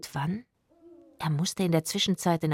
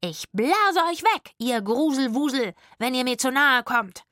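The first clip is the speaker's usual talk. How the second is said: mock threat; 7 semitones higher, 4 dB louder than usual. Rufus threatens ghosts with trombone.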